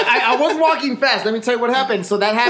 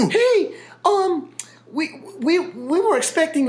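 customer voice; 9 semitones higher, slower than usual. Retold or imitated. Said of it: "They're like".

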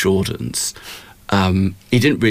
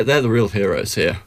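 sarcastic whispered aside. Real, not acted. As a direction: whisper it like a secret. Sarcastic aside about Nike.

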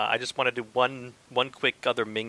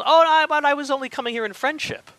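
mock Zarkov; 13 semitones higher, 7 dB louder than usual. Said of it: "And I was".

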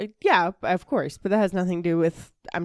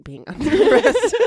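high, loud laugh through the words; 5 dB louder than usual. Real, not acted. Host breaking into laughter while repeating her own stumble. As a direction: crack up mid-phrase.

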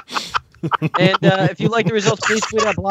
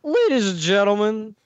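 Southern politician voice; 2 semitones higher than usual. Acted. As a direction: ham up a Southern pol. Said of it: "Alex Jones, uh, Southern, uh, politician voice".

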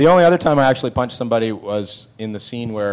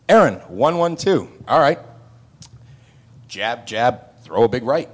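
coach calling out combos. Retold or imitated. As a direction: call the punches like a trainer. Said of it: "Alex is yelling out".

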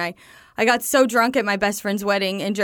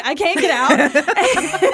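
mock panic; 5 semitones higher, 4 dB louder, much slower than usual. Retelling panic in car.

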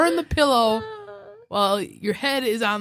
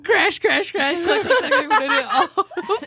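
high laughing sound effects; imitated crashing; 9 semitones higher than usual. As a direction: mimic the clatter, laughing. Imitating rocks falling.

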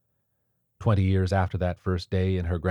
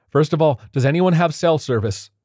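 higher, louder anxious question; tense urgent question; 9 semitones higher, 8 dB louder than usual. A narrator's reading. Lauren quizzing the group in the basement, tense. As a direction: press them for answers.

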